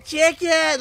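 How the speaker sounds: short high yelp of a word; quick shouted answer. Retold or imitated. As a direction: blurt it, then stop. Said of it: "did they say it with confidence?".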